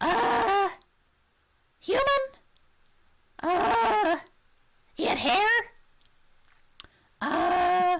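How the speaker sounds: loud, high-pitched kobold voice. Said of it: "I love the kobold voice".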